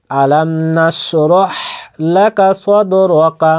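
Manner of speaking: slow, measured Quran recitation; joined-up recitation. Shown as a demonstration. Teacher reading it the same way for learners, slow measured recitation. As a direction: recite the whole verse slowly and evenly. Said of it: "ওইভাবেই পড়ব যেভাবে এটাকে পড়লাম".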